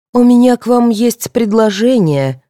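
slow, stretched words; drawn-out offer. Acted. Alla luring Viola with a proposal, drawling. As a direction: draw the offer out invitingly. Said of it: "протянула Алла".

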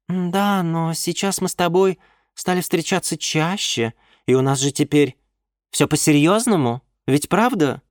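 put-on high, cooing young woman; sweet girlfriend voice. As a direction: coo it to your sugar daddy. Nymph voiced on the phone. (воркующая блондинка)

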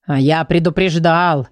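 slow, low told-you-so exclaim. Acted. The grumpy book exclaims at Dilly, a mild told-you-so. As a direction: drive home that you warned them. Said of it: "воскликнул Ворчун".

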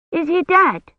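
put-on high, small voice of a scared child; Agnes, a young girl, asking fearfully if the clerk died; frightened little girl. A narrator's reading. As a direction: ask it like a child afraid of the answer. Frightened girl after the struggle.

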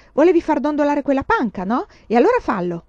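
sharp, loud telling-off; scolding challenge. A narrator's reading. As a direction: goad the pupil loudly. Teacher goads the pupil.

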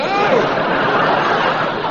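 high, hooting laugh; mocking laugh. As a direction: laugh at them again.

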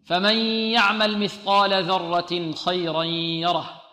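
slow, measured tajweed recitation; Quran recitation. Acted. Teacher reciting the verse for students to repeat. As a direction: recite the verse slowly, letting each letter sound.

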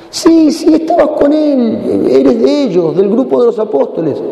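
high, insistent, drawn-out accusation; teasing accuser in a put-on high voice; accusing servant. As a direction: press the accusation, pitched high and slow. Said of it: "y le dicen a San Pedro".

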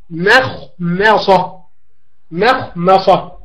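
مخمصة stretched very slowly, the first م kept thin before the heavy خ; very slow demo. Shown as a demonstration. Teacher sounding out a tricky word for students, very slow. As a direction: draw out مخمصة with a light mim. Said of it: "حاذر أيضًا من تفخيم الميم من مخمصة".

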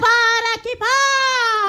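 slow, high, tearful cry; the president howling in despair; wailing cry. Acted. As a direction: wail it out long and drawn. The president cries out again.

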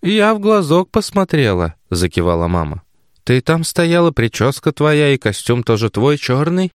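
put-on a flustered old mother; mother explaining to daughter, flustered and high. A narrator's reading. Mother's voice held in reading.

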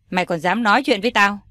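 put-on quick, angry challenge to the boyfriend; furious father snapping fast at the boyfriend. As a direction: fire it off fast at him. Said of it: "Nhược Tôn tức giận".

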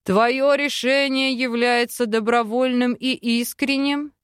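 lightly voiced solemn chief; a hint of a grave tribal elder. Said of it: "услышала вопрос вождя".

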